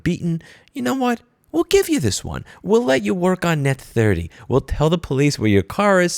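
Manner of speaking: high, sugary mock customer service voice; mock company rep. Vlogger mocking the carmaker's help line, high and syrupy. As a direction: ham up a fake-generous corporate rep. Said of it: "rather than just say".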